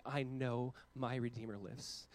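soft, very slow and low; quiet and slow. Real, not acted. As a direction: let it sink in softly. Quiet restatement of the creed.

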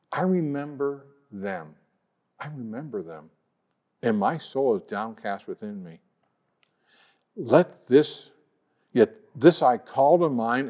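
unhurried scripture reading, letting each line land. Shown as a demonstration. Preacher slowing down so Lamentations sinks in, unhurried reading. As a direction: read it slow so it sinks in. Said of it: "Let's read this a little slower".

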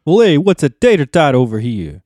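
loud, hammed-up East Coast accent; mock East Coast accent. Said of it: "East Coast accents in there".

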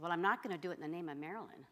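fast, amused comeback; laughing retort. Retold or imitated. Preacher retelling her quip to her friend, laughing. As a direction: toss it off with a laugh.

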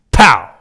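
loud, sudden "pow", falling sharply; shouted impact noise. Retold or imitated. Storyteller imitates Abbasen's knockout blow, explosive shout. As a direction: punch out the hit sound.

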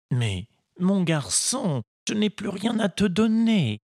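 put-on a patient old woodcarver advising his boy; kindly old Geppetto. Geppetto voiced in story.

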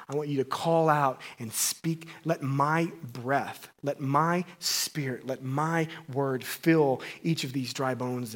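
slow, soft voice of God; God calling Ezekiel, slow and soft. Acted. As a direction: speak it slowly as God commanding. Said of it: "And then God says".

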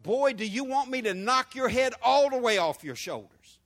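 a touch of a threatening mother; mock mama threatening her boy; stern mama. Pastor imitating a mama scolding her son, lightly threatening. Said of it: "when your mama says".

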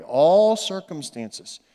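"all" stretched long and slow; stress on ALL. Shown as a demonstration. Preacher correcting "every" for the congregation, stress on "all". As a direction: lean hard and long on "all". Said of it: "That's how we say it".

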